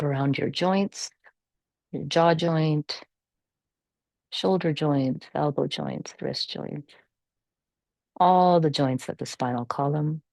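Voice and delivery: calm, measured meditation guidance with long pauses; guided meditation. Real, not acted. Yoga teacher settling the class into natural breathing, calm guided meditation. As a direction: guide them gently through the breath, unhurried.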